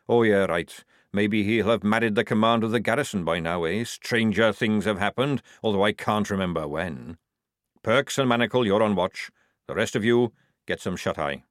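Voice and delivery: lightly voiced gruff army sergeant; a hint of a wheedling old sergeant. Jackram voice again.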